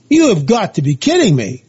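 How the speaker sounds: mildly incredulous, with swooping emphasis; retold disbelief. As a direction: replay your amazement, stressing each beat. Retells astonishment at the mound.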